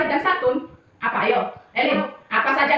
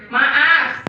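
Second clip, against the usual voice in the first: modelled sorry; 5 dB louder than usual. Shown as a demonstration.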